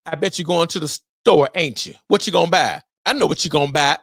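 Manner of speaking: mocking nosy asker. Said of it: "people ask a question and then answer it".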